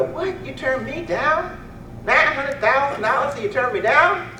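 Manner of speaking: high, outraged disbelief; indignant disbelief. Retold or imitated. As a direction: act shocked at being refused. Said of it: "You go".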